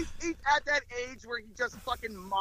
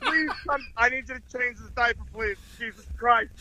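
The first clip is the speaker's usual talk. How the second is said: mock desperate pleading; 2 semitones higher than usual. Begging wife to take over diaper.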